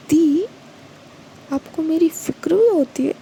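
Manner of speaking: lightly teasing, a touch of mischief; playful teasing. A narrator's reading. Younger sister teasing her tearful elder sister, lightly playful. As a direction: tease her to lighten the mood. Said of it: "थोड़ा मजाकिया अंदाज में कहती है".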